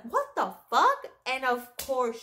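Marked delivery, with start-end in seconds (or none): 0.0-1.1 higher-pitched mock yell of disbelief; mild imitated outburst; retold yelling. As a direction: imitate her outraged yelling, not at full volume. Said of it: "she's yelling on top of her lungs".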